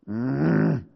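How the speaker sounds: long, closed-mouth "mm"; frustrated groan. Acted. Jesus troubled at the weeping, mildly frustrated groan. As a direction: groan it through closed lips. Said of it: "he was frustrated. Slightly angry".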